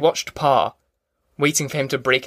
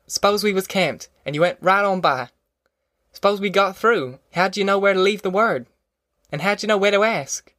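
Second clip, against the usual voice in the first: higher-pitched country mother, earnest; insistent Ma; 6 semitones higher than usual. Acted. Ma warning against busting up the folks, higher-pitched insistence. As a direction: plead firmly to hold them together. Ma argues with Tom.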